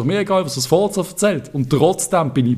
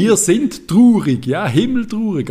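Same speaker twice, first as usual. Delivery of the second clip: mocking; 5 semitones higher, slower than usual. Mocking the sad players.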